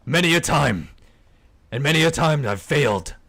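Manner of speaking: lightly acted storyteller character; a hint of an in-character warning; lightly voiced weary adventurer. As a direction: speak in measured, emphatic phrases with pauses. Game master voices a character.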